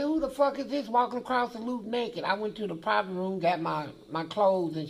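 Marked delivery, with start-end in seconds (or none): 0.0-2.2 high, loud mocking holler from the cells; raised inmate shout, high and loud; mock inmate yell. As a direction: yell it like a shocked inmate across the yard. Inmates yelling at naked man.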